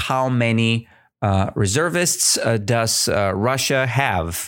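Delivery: ordinary delivery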